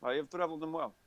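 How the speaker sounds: lightly voiced seasoned sea traveller; a hint of an accented old soldier. Game master voices old soldier Horace.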